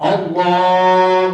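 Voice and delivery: اللہ drawn out slow and loud, short final ha; teacher models اللہ with a short unstretched ha; correct Allah. Shown as a demonstration. Teacher demonstrates correct تکبیر for students, clearly drawn. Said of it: "تو یہ پڑھنا ہے".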